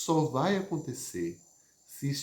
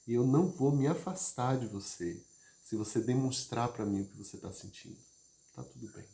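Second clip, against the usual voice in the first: safe, reassuring demo. Shown as a demonstration. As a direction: stay gently beside someone who is anxious. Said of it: "uma pessoa que fala assim com você".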